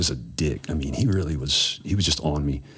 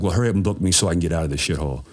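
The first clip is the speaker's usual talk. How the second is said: fast angry retort; faster than usual. Retold or imitated. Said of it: "now I'm mad".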